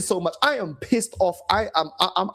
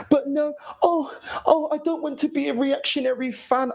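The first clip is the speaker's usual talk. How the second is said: higher, prissy mock fan voice; mimicking fans; 6 semitones higher than usual. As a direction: ham up the smug fan.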